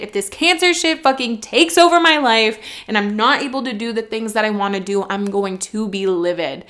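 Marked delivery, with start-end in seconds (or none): 0.0-5.0 angry outburst. Real, not acted. Angry outburst about cancer.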